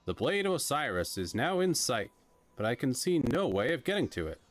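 earnest adventure hero, lightly voiced; adventurous hero voice. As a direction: narrate like a bold explorer. Reads hero dialogue aloud.

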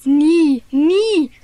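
loud, indignant outburst of never, never; angry shout. Acted. Boy vows angrily to friends he won't be fooled again, shouting. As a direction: fling the words out in boyish outrage. Thomas furious at being fooled.

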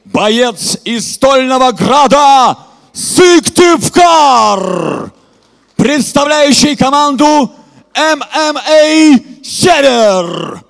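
ring announcer. Acted. Announcing fighter.

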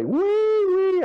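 high, loud sing-song call across the block; mother calling out. Retold or imitated. Mother calls her boy in from playing war, high loud call. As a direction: call him home like a mother from the porch.

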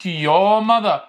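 very slow, stretched; teacher modelling slowly; slow model reading. Shown as a demonstration. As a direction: say it slowly for the class. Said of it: "يلا".

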